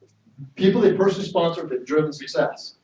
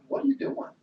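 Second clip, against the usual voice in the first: higher, whispered protest; mock exasperated whisper; 10 semitones higher, 6 dB quieter than usual. Colleagues question Dan about not signing people, whispered and exasperated. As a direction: hiss it like a frustrated colleague. Uplines question Dan's method.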